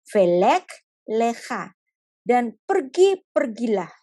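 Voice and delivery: slow, gentle order to go; God gently sending Abraham; slow gentle command. Acted. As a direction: soften a hard command. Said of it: "Tuhan tetap bicaranya begini".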